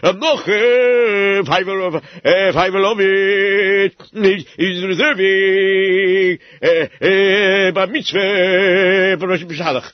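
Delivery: imitating the shamash. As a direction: mimic his fretful sighing and dithering. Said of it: "I even remember how you did it".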